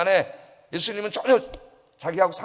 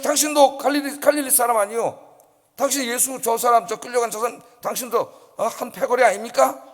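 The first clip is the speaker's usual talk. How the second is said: put-on servant girl accusing; 7 semitones higher than usual. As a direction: point him out sharply before the crowd. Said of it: "여정이 보더니". (베드로를 몰아세우는 여종, 높고 큰 소리)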